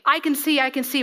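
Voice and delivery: boastful claim. Retold or imitated. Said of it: "If we say".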